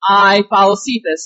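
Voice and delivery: "I" in "I follow Cephas" hit firmly; emphatic "I" at the start; stress on I. Shown as a demonstration. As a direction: lean on the "I". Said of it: "let me emphasize the word "I".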